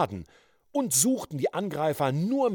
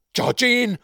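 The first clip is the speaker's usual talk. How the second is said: higher, loud cry of horror; horrified cry; 11 semitones higher, 7 dB louder than usual. A narrator's reading. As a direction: call her name aghast. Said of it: "rief Dayton in Entsetzen".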